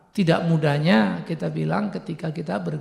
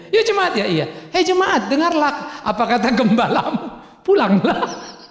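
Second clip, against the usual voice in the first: mock pastor's command; 5 semitones higher than usual. Pastor mock preaching to her.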